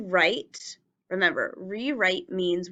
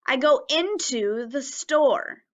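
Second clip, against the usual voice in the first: slow, careful model sentence; 5 semitones higher, slower than usual. Shown as a demonstration. Teacher modelling a sentence slowly for children. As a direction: say each word slowly for the class. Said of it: "Try putting the word into in a sentence".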